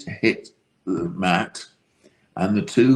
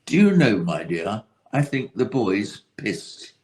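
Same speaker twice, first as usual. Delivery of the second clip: mock a prim proper lady's remark; prim old lady. Ladies at the bar judging the fallen boy, prim and posh. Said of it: "And one said to the other".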